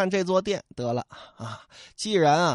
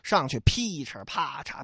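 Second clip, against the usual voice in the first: ordinary delivery, nothing marked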